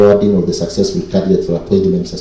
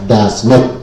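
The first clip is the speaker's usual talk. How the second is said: "does not" pressed firmly, with a rising end; stress on does not. Real, not acted. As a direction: hit "does not" hard and clearly. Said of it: "and you underline the word does not".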